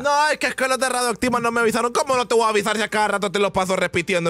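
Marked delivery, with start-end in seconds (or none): 0.0-1.9 lightly whiny imitation, higher and hurried; mock complaint, quick and higher; mock excuse-maker. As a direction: imitate a complaining listener, fast and raised. Voices a listener's excuse.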